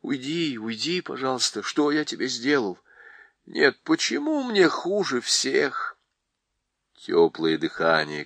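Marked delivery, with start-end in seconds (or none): 0.0-6.0 испуганно. Acted. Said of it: "вдруг страшно испугался".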